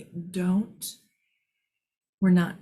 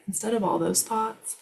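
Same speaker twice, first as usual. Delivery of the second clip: ordinary delivery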